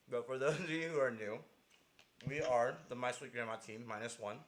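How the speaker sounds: talking through a bite of chicken; words around a mouthful of fried chicken; eating chicken. Real, not acted. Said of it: "I'm gonna take a bite of chicken".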